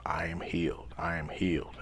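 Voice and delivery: soft unvoiced whisper, repeated; whispered affirmation. Man whispering healing affirmation to himself, hushed. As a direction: breathe the words as a private mantra. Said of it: "and I whisper to myself".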